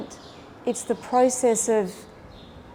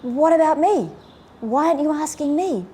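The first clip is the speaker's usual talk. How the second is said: higher, indignant mock snap; retold snapping; 6 semitones higher, 4 dB louder than usual. Bypassed Mum snapping at Dad over Lent, indignant. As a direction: act out a wife snapping at him. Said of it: "She snaps at him".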